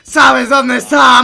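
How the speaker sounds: drawn-out yell, each word stretched; slow shouted question. Real, not acted. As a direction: hammer the question home. Yells repeated question, slow. (grito lento y marcado)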